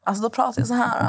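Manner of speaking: affected Stockholm dialect demo; put-on Stockholm accent. Shown as a demonstration. Friend demonstrates the dialect Natta hates, put-on Stockholm accent. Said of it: "gör till mig en dialekt".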